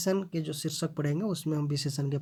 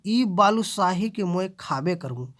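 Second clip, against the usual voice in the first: खाबे करबो pressed and louder; stress on the verb; 4 dB louder than usual. Shown as a demonstration. Teacher demonstrating verb stress, खाबे करबो emphatic. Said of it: "क्रिया में जोर दे के".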